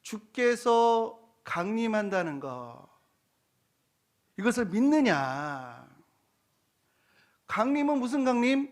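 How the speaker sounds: scoffing doubter, rising in pitch at the end; incredulous rhetorical jeer; mocking. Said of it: "조롱하며 하는 말이".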